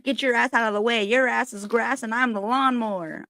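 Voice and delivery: high, fast granny taunt; nana's sass. Retold or imitated. Nana telling someone to get out of the way, quick and high. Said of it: "She'd be like".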